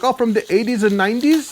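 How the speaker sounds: high-pitched imitation of the mail lady. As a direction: lift your voice way up to quote her question. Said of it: "She's like".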